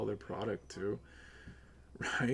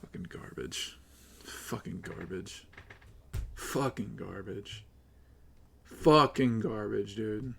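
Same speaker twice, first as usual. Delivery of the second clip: disgusted muttering, building; 2 semitones lower, slower than usual. Real, not acted. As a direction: repeat it slowly, each time with more force. Repeats a bitter verdict on the stream.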